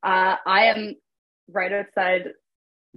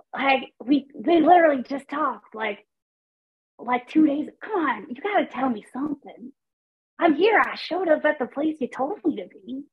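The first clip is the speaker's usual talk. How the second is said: higher-pitched, exasperated plea; annoyed pleading; 5 semitones higher than usual. Acted. Character pleading with a silent God, mounting annoyance. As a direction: plead with someone who won't answer. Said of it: "He's getting very, very annoyed".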